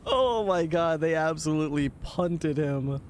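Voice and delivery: high laughing disbelief. Real, not acted. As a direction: laugh through the words. Laughing at clip.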